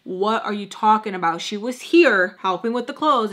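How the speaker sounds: mock confrontation with mild force; getting into her. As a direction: call her out, retelling an argument. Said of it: "getting into her".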